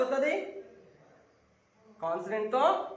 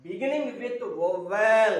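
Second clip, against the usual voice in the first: very slow, each word stretched; teacher dictating a rule word by word; slow emphatic dictation; 5 dB louder, much slower than usual. Shown as a demonstration. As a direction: spell it out slowly for the class. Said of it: "మా చాలా జాగ్రత్తగా వినండి".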